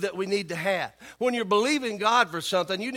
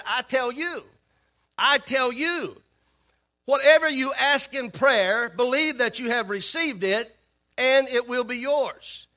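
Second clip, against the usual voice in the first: solemn scripture reading; 3 semitones higher than usual. Acted. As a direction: lift the voice and lay out each phrase. Quoting Jesus' words.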